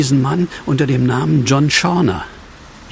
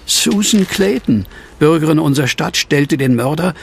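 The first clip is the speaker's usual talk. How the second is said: reading aloud; 3 semitones higher than usual. Acted. Reads newspaper headline aloud.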